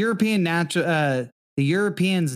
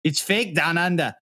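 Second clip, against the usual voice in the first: put-on a weak try at an Australian accent; bad Australian accent. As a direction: botch an Australian accent on purpose. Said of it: "I'm never gonna get that accent right".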